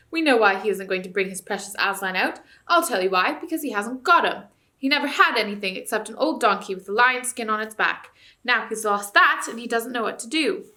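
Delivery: loud, scornful dwarf voice; taunting dwarf. Acted. Dwarf mocking the ape before the crowd, loud. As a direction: jeer at the ape's lie, loud.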